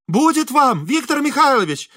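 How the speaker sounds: fortune-teller calling from her window to the locksmith. A narrator's reading. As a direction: call down to calm him. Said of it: "крикнула из окна Елена Станиславовна".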